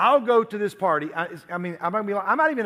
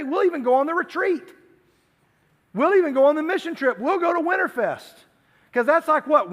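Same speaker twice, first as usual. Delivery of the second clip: higher, louder, breezy promise-making voice; eager bargaining churchgoer; 8 semitones higher, 4 dB louder than usual. Acted. Preacher voicing a churchgoer bargaining with Jesus, breezy and raised. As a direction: talk Jesus into waiting with easy promises.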